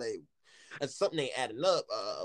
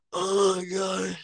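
laughing groan; 4 semitones higher, 4 dB louder, much slower than usual. Real, not acted. Laughing fit after the story.

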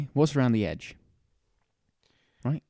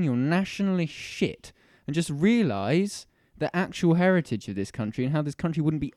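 heated, swearing rant; 3 semitones higher than usual. Real, not acted. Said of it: "get him all riled up like this".

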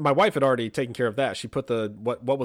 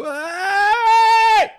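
sharp high yell; shout; 9 dB louder than usual. Retold or imitated. Father shouting to stop wife and daughter fighting. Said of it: "my stand up and yell thing".

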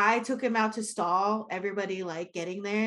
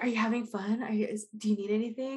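fussy host; faster than usual. Retold or imitated. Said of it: "I'm just like".

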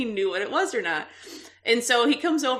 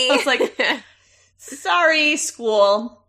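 laughing excuse; 5 semitones higher, 6 dB louder, much slower than usual. Real, not acted. Retelling husband's excuse, laughing.

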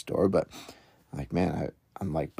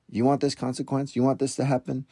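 higher-pitched mock threat to the kids; threatening parent; 6 semitones higher than usual. Dad warning his fighting kids, mildly threatening. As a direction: pose it as a warning question. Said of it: "is not threatening my kids".

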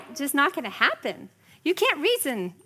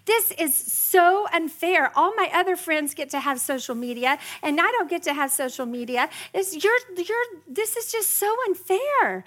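mock teen whine, higher; whiny teenager; 6 semitones higher than usual. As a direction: sulk and complain like a teen. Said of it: "teenager who's saying".

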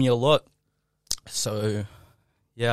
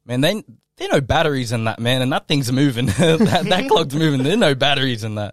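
excited; 3 semitones higher, 7 dB louder than usual. Retold or imitated. Retold freak-out, louder, laughing.

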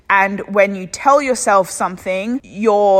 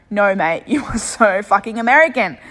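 a touch of a broad Australian accent, mocking; 2 semitones higher than usual. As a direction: tease your brother in an exaggerated Australian voice. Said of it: "I'm like".

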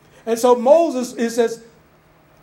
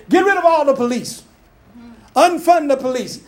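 raised, louder mock protest chant; mock shouting; 4 semitones higher, 4 dB louder than usual. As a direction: imitate the crowd yelling slogans.

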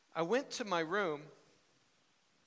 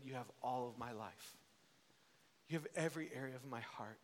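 quiet, earnest retold prayer; 4 dB quieter than usual. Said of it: "I remember praying a prayer that night".

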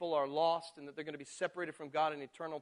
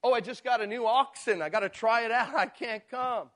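excuse makers; 4 semitones higher, 6 dB louder than usual. Retold or imitated. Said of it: "They said".

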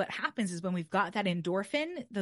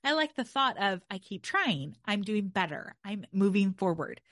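brain voice objecting. Pretend. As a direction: playfully interrupt yourself, wait wait. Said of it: "allows your brain to say".

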